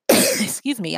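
clearing the throat between words; coughing fit. Real, not acted. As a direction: voice rough after a cough. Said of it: "I keep coughing today".

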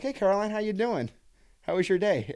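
high, bright-eyed polite hello; overly sweet greeting. Retold or imitated. Guest greeting friend's mom in a high sweet voice. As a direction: pitch way up, too polite.

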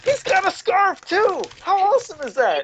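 high, delighted praise; thrilled by the costume; excited. Real, not acted.

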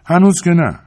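preoccupied but not cold. A narrator's reading. Carla answers her husband, preoccupied, not cold. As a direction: answer gently, mind elsewhere.

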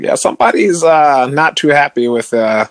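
lightly voiced Canadian Jewish mom; a hint of a Jewish mother from Canada; Jewish lady voice. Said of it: "You're doing a great Jewish lady voice from Canada".

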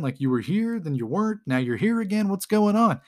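playfully retold incredulous questioning; baffled demand. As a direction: imitate someone exasperated, building to the final question. Retold villain demands an explanation.

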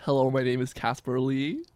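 attempted American accent with rising end. Shown as a demonstration. Guest shows the hosts his American accent, careful attempt. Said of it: "That's better".

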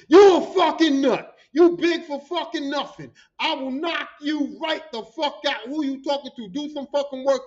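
loud, furious coworker spitting threats; angry threat. Retold or imitated. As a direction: bark the threat at him like you're about to swing. Coworker threatens Big for Nothing.

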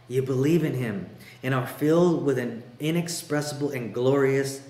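emphatic, measured Bible reading; scripture reading. Acted. Preacher reading Peter's letter to the church, emphatic. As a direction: read it out with weighty pauses.

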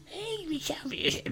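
very high pretend wondering, broken by throat-clearing; feigned curiosity. Queen shows Edmund what to say, high mock wonder. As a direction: act out innocent curiosity in a high voice. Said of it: "kun je zeggen van".

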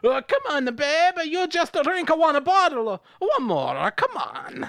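lustful creep urging her on. Acted. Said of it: "In a lustful voice".

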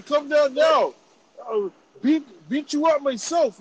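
high, loud mock Indian accent; threatening retort in a put-on Indian accent. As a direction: imitate an angry parent with an Indian accent. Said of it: "that's the accent they had".

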